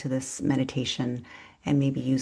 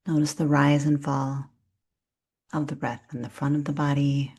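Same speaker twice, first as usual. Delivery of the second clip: calm, unhurried breath-awareness guidance; soothing yoga nidra instruction; guided meditation. Real, not acted. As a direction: guide them gently through noticing the breath, leaving long pauses.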